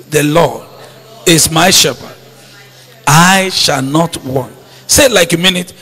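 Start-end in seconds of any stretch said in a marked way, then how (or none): 0.1-4.5 soft, low, said to yourself; a private, settled declaration; quiet self-affirmation. Shown as a demonstration. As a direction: murmur it as a promise to yourself. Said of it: "Say that to yourself".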